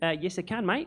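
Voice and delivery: Australian accent. Showing a room how an Australian accent sounds: Australian accent. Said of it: "here comes Australian".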